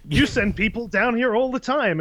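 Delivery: pointed mock reproach; imitated Superman retort. Superman answers the panicking mine owner, lightly mocking reproach.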